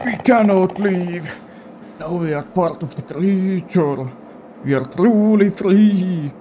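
solemn old grandpa, lightly voiced. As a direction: intone it like an eerie old man. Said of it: "the Grandpa voice".

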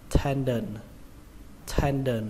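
"tendon" stressed on TEN, said like "then"; stress on first syllable. Shown as a demonstration. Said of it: "Trọng âm của nó rơi vào âm đầu tiên". (nhấn âm đầu "then" trong "tendon")

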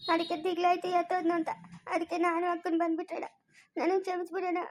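crying plea. Acted. Sister begging her brother's forgiveness, softly weeping. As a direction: plead through tears, quietly. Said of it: "ಅಳ್ಬೇಡ ಸುಮ್ನಿರಮ್ಮ".

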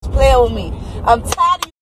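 high-pitched furious put-down; angry insults. Real, not acted. Furious high-pitched insults hurled at a commenter. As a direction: tear into them, voice up high.

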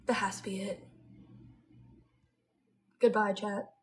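sighing, almost unvoiced whisper. Real, not acted. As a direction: breathe it out, spent. Tired end of stream.

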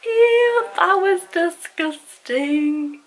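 screaming at a spider. Real, not acted. Reacting to the spider.

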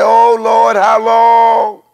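high, loud pleading cry, rising with each when; a weary believer crying out how long; imitating a pleading believer, high and loud; desperate cry to the Lord. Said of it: "there's gonna be times when you're gonna say".

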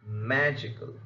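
"magical" with MA leading, the ending light; first-syllable stress. Shown as a demonstration. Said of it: "first syllable of such a word will be stressed".

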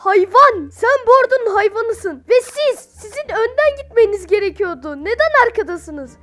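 high, loud speech to the troops; hammed-up commander handing out duties; mock army commander. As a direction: address your soldiers grandly. Commander addresses each troop type.

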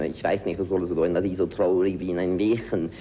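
rounded German poem lines; German recitation. Shown as a demonstration. Actor demonstrating German sounds, recited German. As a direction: recite Heine with German mouth. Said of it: "all these sort of sounds".

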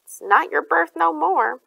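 slow, loud growl. A narrator's reading. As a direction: growl it slowly at a rival. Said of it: "Lefty growled at the man".

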